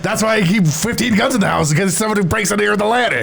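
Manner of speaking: lightly voiced gruff old man; a hint of paranoid great-uncle; Grunkle Stan voice. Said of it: "That's a really good Grunkle Stan".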